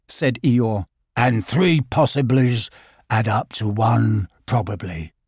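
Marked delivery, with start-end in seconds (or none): 1.2-5.1 gloomy donkey. Acted. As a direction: sigh it out like a glum old donkey. Eeyore voice.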